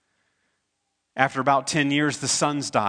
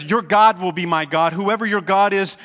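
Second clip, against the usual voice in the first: louder, higher heartfelt declaration; fervent vow; 4 semitones higher, 3 dB louder than usual. Retold or imitated. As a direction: swear loyalty with rising passion. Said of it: "that's why Ruth says".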